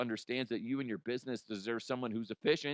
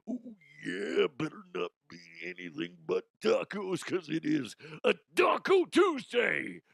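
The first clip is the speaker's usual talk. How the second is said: Macho Man impression. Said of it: "Macho Man impression".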